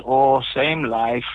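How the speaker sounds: put-on lightly done, slow Indian accent; a weary-paced, half-hearted Indian accent. Shopkeeper answering the happy customer, light Indian accent, slow. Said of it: "Was that your best Indian accent".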